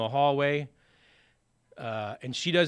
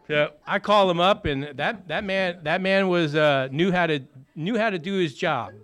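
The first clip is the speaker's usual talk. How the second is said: loud, laughing, higher praise; rising excitement telling about the lawyer; excited; 5 semitones higher, 8 dB louder than usual. Real, not acted. Recovering addict tells audience how the lawyer saved him, loud and laughing.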